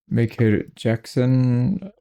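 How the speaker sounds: a slow, drawn-out name in a light mock Asian accent. Streamer announces the new companion in a mock Asian accent. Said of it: "said that with an Asian accent".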